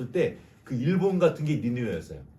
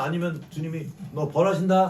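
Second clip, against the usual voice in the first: offhand warning; 3 semitones higher, 4 dB louder than usual. Retold or imitated. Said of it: "하고 이렇게".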